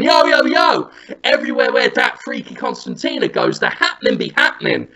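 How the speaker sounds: high, lively hype-man patter; mock microphone hype. Party host following Jonathan around, mock hype-man call. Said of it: "saying through my microphone".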